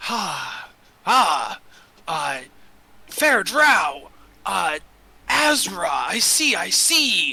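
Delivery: very slow, faltering, halting fiend voice. Voicing a fiend that tries to talk to a player first: voicing a trapped fiend. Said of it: "it would be like".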